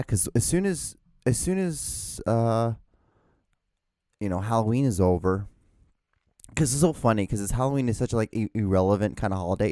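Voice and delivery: talking while chewing gum; words round a piece of gum. Real, not acted. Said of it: "I still have gum in my mouth".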